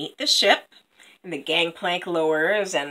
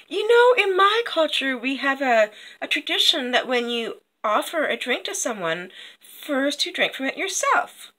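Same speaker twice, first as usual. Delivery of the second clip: lightly raised, pointed politeness; Copper Tree; 5 semitones higher than usual. Acted. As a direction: explain the custom in a slightly higher voice. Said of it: "and she says".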